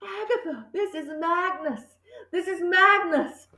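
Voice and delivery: soft high eerie murmur; a hint of a spectral whisper; ghostly message. A narrator's reading.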